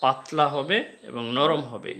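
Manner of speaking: slow, with stress on পাতলা and নরম; emphatic teacher explanation. Shown as a demonstration. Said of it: "এই অক্ষর উচ্চারণটা কি হবে?".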